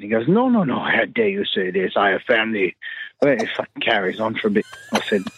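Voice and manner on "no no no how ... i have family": indignant cab driver. Retold or imitated. Retold offended cab driver.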